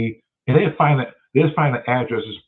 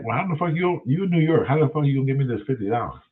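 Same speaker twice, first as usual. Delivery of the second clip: excited; 4 semitones higher than usual. Retold or imitated. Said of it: "I'm all excited".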